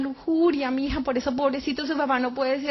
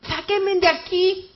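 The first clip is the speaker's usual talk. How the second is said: slow, higher cry for help; desperate plea; 4 semitones higher, 3 dB louder, slower than usual. Retold or imitated. Trapped soul begging to be pulled out, desperate cry. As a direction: stretch the plea out, raised in pitch. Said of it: "Empecé a gritar desesperada".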